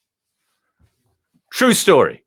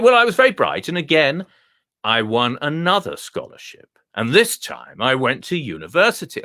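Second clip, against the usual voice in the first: posh dog voice. Acted. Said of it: "speak like this".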